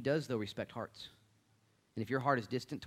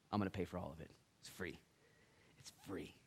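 very soft, low, with pauses; hushed, tender assurance; gentle divine offer; 4 semitones lower, 10 dB quieter than usual. Acted. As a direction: let each line land quietly. Voicing Jesus offering heaven free.

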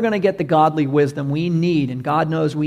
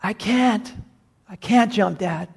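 tag; 5 semitones higher than usual. Acted. Trapped son refusing to jump.

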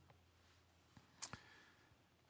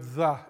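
"the" said alone, lower and punched; stress on "the"; 3 semitones lower than usual. Shown as a demonstration. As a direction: lean on "the" to mark it as the only one. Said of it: "emphasize the word".

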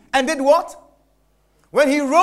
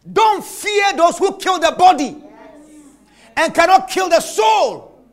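preached shout; 3 semitones higher than usual. Acted. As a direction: thunder it out to the congregation. Preacher quoting Christ, shouting.

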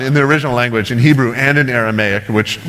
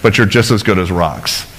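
low, dry mock agreement; mildly sarcastic; 3 semitones lower than usual. John the Baptist putting down the Pharisees, mildly sarcastic. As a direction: lightly insult them with a deadpan concession. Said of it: "almost sarcastically insulting these guys".

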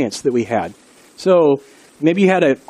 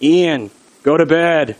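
deepest voice; slower than usual. Retold or imitated. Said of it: "he said in his deepest voice".

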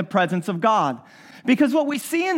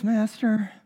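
weary resigned voice; much slower than usual. Retold or imitated. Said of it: "he probably says it in that voice".

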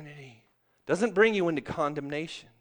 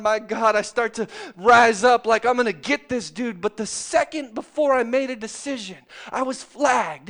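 loud, driving sermon delivery; revved-up pulpit storytelling; full-force preaching; 5 semitones higher, 7 dB louder than usual. Acted.

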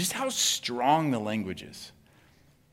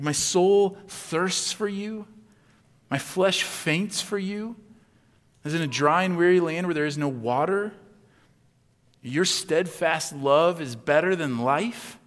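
psalm reading; 2 semitones higher than usual. Shown as a demonstration. Reads psalm lines slowly.

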